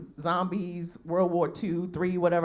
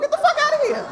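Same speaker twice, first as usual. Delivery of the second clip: incredulous shout; 7 dB louder, faster than usual. Real, not acted. Punchline dismissal of old president.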